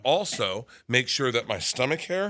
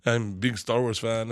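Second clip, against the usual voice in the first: put-on Croatian accent; slower than usual. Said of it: "Eva, who's from Croatia".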